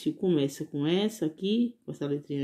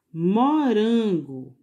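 Morango drawn out slowly and louder; slow syllables; 4 semitones higher, 5 dB louder, much slower than usual. Shown as a demonstration. Teacher to pupils, sounding out the fruit slowly. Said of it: "Bem devagarzinho pra saber qual é a vogal".

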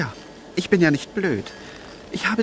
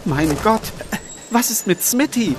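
alarmed; 4 semitones higher than usual. Acted. Shocked after the shooting.

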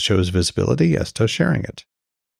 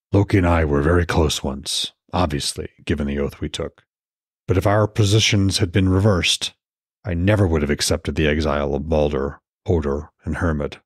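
lightly voiced Odin; 5 semitones lower than usual. Odin explains to Frigg.

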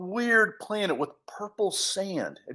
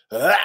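strained grunt; 3 semitones lower, 6 dB louder than usual. Acted. Bear choked by leash.

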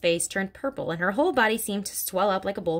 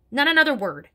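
higher and louder commanding shout; 7 semitones higher, 6 dB louder than usual. Acted. Headmistress silencing Miss Honey, shout. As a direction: shout her down. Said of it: "shouted Miss Trunchbull".

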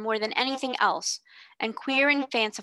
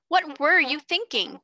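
higher, louder and slow, pressing for an answer; angry demand; 6 semitones higher, 4 dB louder than usual. A narrator's reading. Headmistress interrogating a defiant pupil, slow angry demand. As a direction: drag the question out like a threat. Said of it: "demanded Miss Minchin".

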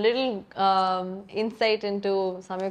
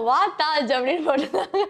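high, laughing retelling; laughing while telling; 6 semitones higher, much faster than usual. Real, not acted. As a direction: giggle through the words. Retelling mum's funny caption.

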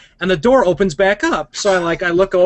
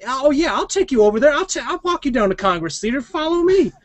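street hustler voice; 7 semitones higher than usual. Retold or imitated. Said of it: "some guy who's like".

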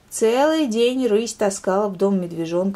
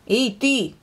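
bear cub calling; 5 semitones higher, 4 dB louder than usual. Acted. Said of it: "крикнул медвежонок".

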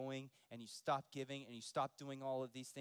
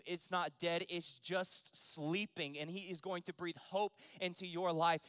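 rousing preaching; 4 semitones higher, 7 dB louder than usual. Real, not acted. Preaching hope to congregation.

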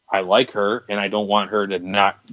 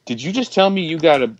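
incredulous nurse; 3 semitones higher than usual. Retold or imitated. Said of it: "the nurse looks at me, like, with a combination of".

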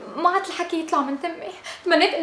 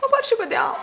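nervous laugh; 8 semitones higher, much faster than usual. Acted. حائرة تضحك من ورطتها.

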